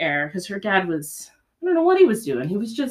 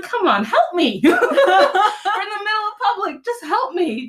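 high, laughing call for help; half-joking desperate plea; 11 semitones higher, 3 dB louder than usual. Retold or imitated. Overwhelmed mom begging onlookers for help, laughing. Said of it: "it's like".

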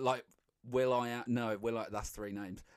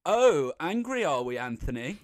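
lightly voiced teasing parent, louder; mock parental tease; 2 semitones higher, 6 dB louder than usual. Child mocking dad with his name, light tease. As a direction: poke fun at dad by his first name. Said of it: "It's like, if you're like".

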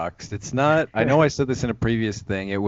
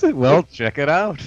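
mock insincere plug, louder and drawn out; disingenuous sign-off; 5 semitones higher, 5 dB louder, slower than usual. Teasing co-host's sign-off, mock disingenuous. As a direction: overdo a hollow sign-off, higher and slow. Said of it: "the sign-off always sounds disingenuous".

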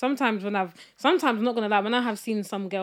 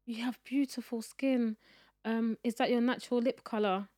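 imitating fawning customer; 4 semitones higher than usual. Voicing customer mum.

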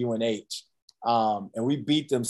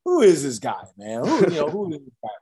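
baffled; 4 semitones higher than usual. Retold or imitated. Players baffled by new strict coach.

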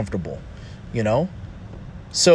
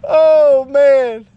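laughing still; 13 semitones higher, 8 dB louder than usual. Real, not acted. Recovering from laughing.

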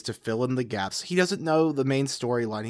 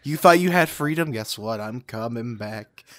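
booming echoing villain monologue. Retold or imitated. Palpatine voiced, cohost mocks Hitler.

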